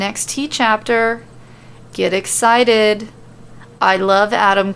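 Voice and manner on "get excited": mock hype. Real, not acted.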